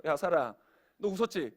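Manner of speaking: 살짝 기분 나쁜 척 낮게; 언짢은 듯 따져 묻는 흉내. Acted. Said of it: "약간 빈정상하셨어요". (약간 빈정 상한 투)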